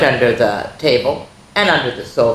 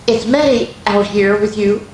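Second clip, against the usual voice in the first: higher, louder worried question; worried father; 5 semitones higher, 4 dB louder than usual. Acted. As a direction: ask anxiously, searching. Father asks mother.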